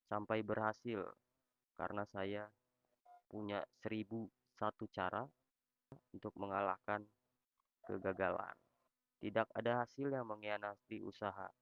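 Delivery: loud tts voice reciting a rhyme; loud robot voice. Real, not acted. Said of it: "gue pakai suara robot".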